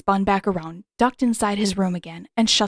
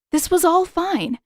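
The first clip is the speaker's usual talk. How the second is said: much higher, nervously insisting it's fine; rising panic; 9 semitones higher, 3 dB louder than usual. A narrator's reading. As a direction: let the panic crack through the reassurance. Panicking heroine reassures herself.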